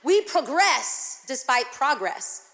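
slow, emphatic pro-GRESS despite PRO-gress; shifted syllable stress. Shown as a demonstration. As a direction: firmly say "progress" as pro-GRESS, then PRO-gress. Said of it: "the wrong emphasis on the wrong syllable".

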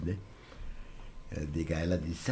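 usual speaking voice

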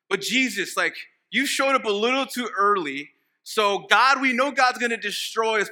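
animated, lightly voiced bargaining; mock pleading. Demons bargain with Jesus for some slack, lightly pleading. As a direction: reason with him for a bit of leeway. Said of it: "they're basically pleading on behalf of God".

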